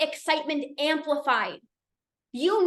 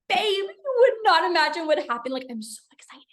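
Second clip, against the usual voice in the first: excited retelling; 3 semitones higher than usual. Retold or imitated. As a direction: share big news with a partner, acted out. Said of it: "I'm, like, so excited".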